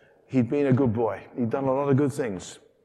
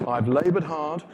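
loud, higher resentful complaint; angry; 4 semitones higher, 7 dB louder than usual. Acted. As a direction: whine about not getting a party. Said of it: "He's very angry about it".

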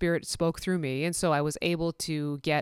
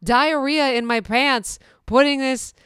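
flustered denial; 7 semitones higher, 6 dB louder than usual. Retold or imitated. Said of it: "I'm like".

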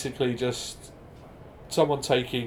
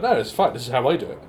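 confident host; 5 dB louder, faster than usual. Retold or imitated. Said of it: "he was just like".

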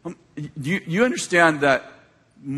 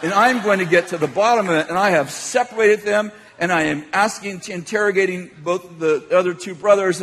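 lightly played stern investigator; mock interrogator; 4 semitones higher than usual. Grandpa questions the grandkids about the fight, mock interrogation. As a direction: announce it like a mock prosecutor. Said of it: "I'm interrogating them".

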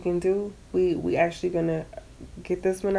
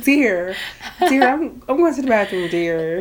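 playful sweet address; lightly raised, sweet pet-name delivery; sweetly; 2 semitones higher than usual. Acted. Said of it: "speak to me sweetly".

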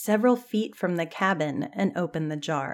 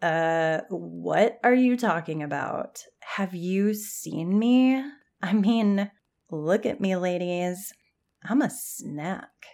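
mock anger. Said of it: "Jan looked at her in mock anger".

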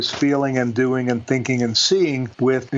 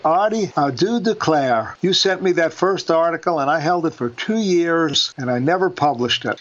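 lightly put-on gentle Southern accent; 4 semitones higher than usual. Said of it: "gentle southern woman with a beautiful southern accent".

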